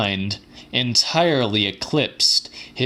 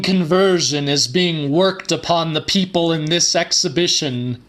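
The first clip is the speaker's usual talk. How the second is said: lightly raised, preacherly stage voice; a hint of a grand showman, higher pitched; showman scientist's address; 5 semitones higher than usual. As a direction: address the hall like a calm, mad lecturer.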